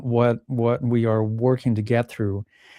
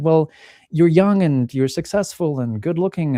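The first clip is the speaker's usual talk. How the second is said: brighter, upbeat mom cheering him up; mother's encouragement; 6 semitones higher, 4 dB louder than usual. Retold or imitated. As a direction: reassure him like a mother brushing it off. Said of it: "typical sort of mother encouragement talk".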